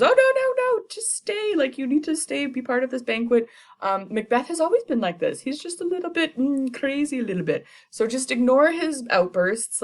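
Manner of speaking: smooth things over in a high panic; Lady Macbeth playing it off, high and forced; frantic hostess. Lady Macbeth covers for him.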